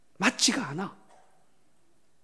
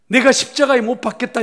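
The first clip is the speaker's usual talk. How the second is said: higher and louder, 내가 hit hard; preaching proclamation; 7 semitones higher, 8 dB louder than usual. Real, not acted. Pastor proclaims to the congregation, loud preaching. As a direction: proclaim it at full force from the pulpit.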